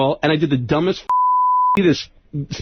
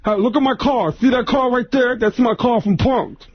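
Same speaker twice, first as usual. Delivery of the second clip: Tracy Morgan; 5 semitones higher, slower than usual. Retold or imitated. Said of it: "I said, Tracy, how you been".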